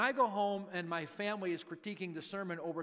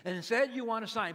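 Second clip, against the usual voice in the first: louder, scolding reading; accusing indictment; 4 semitones higher, 5 dB louder than usual. Acted. Jesus seeming to indict the crowd, accusing tone. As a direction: read it as a mild rebuke. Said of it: "it's easy to read it that way".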